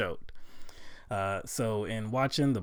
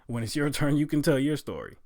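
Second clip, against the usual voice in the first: louder, higher insistence; heated retort; 4 semitones higher, 4 dB louder than usual. Retold or imitated. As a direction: hold the floor firmly, imitating him. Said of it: "And he's like".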